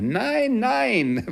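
loud, very high, drawn-out no; emphatic assurance. A narrator's reading. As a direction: protest it at the top of the voice. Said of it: "versicherte Scrooge". (beteuerndes, hohes Rufen)

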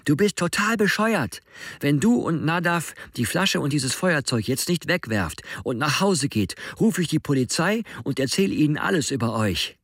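Alex waving his phone, screaming at Joas. A narrator's reading. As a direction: yell it in desperate fury. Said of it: "und schreit".

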